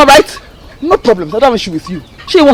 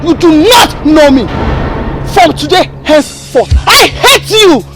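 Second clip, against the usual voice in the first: crying while disowning; tearful denouncing; 5 semitones higher than usual. Acted. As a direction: voice breaking as she disowns her.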